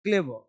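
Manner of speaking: क्लेवर with an open vowel ending, no r; silent final R. Shown as a demonstration. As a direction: say क्लेवर as 'klay-wuh'. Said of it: "आर नहीं पढ़ेंगे". (क्लेवर का आखिरी 'र' न बोलें)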